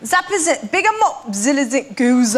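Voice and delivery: garbled attempt at Yorkshire, sounds without sense; mangled Yorkshire accent. Guest repeats the second half for the host, mangled Yorkshire accent. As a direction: mimic Yorkshire by ear and mangle it. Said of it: "by the time you'd mangled it".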